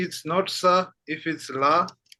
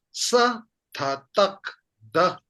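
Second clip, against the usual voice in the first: slowed-down read; 3 semitones higher, 3 dB louder than usual. Shown as a demonstration. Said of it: "If I slow it down".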